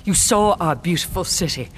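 heated, forceful tirade; giving vent. Acted. Queen berates invaders who came as guests, giving vent. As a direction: let the rage pour out in bursts. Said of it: "as she gives vent".

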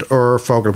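"Urvogel" said as OOR-fo-gel; German V as F. Shown as a demonstration. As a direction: soften the V of "Urvogel" into an F. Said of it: "pronounced slightly as an F".

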